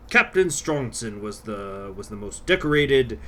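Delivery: dramatic narrator voice. Retold or imitated. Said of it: "basically something like".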